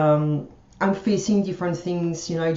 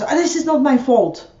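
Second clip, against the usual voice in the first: higher mock-defensive protest; retold aggressive defensiveness; 5 semitones higher, 4 dB louder than usual. Retelling the mail pickup guy at the post office, aggressively defensive. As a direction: imitate someone snapping back, raised a little. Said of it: "like, reacting aggressively".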